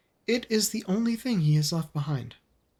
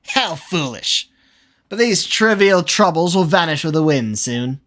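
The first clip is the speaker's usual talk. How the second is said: villain laugh; 6 dB louder than usual. Acted. Villain mocks the child.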